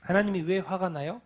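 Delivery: usual speaking voice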